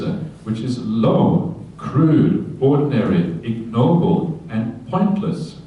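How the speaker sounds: scripture reading. Acted. Monk reciting the Buddha's first teaching to the group, slow and solemn. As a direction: let each word of the teaching land slowly.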